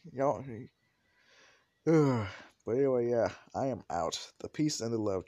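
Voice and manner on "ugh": sighing "ugh"; exasperated groan. Real, not acted. Narrator fed up with guessing viewers, exasperated groan. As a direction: let out a weary groan.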